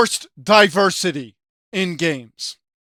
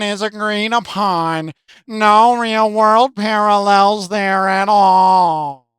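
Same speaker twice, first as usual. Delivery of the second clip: mocking a commenter; 4 semitones lower than usual. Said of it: "he goes on to say".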